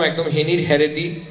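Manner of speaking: a light Noakhali lilt on "হেনির হেরেদি"; Noakhali dialect. Shown as a demonstration. Speaker showing his home dialect, light Noakhali accent. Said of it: "আমার নোয়াখালীর টানটা চলে আসে".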